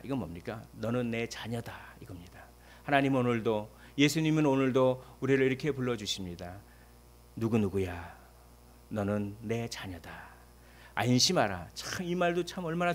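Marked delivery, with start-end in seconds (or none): 0.7-2.0 tender. Acted. Tender voice of Jesus. 7.4-11.7 tender call. Acted. Jesus tenderly calling believer.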